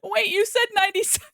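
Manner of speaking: high, loud shocked wait a minute; double-take of real disbelief; stunned disbelief. Real, not acted. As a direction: streamer realizing a donation was far bigger, shocked. Realizing the donation was bigger.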